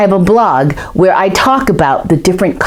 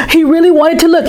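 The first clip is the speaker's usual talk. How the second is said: higher, keen; eager; 10 semitones higher, faster than usual. Acted. Boy torn between wanting to look, eager. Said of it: "contrasting takes, eager then reluctant".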